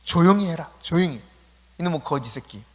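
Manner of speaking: mock telling-off, firm start; acted scolding. Crowd rebuking the blind beggar, acted scolding. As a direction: shush him like an annoyed bystander. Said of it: "시끄럽다고 막 꾸짖습니다".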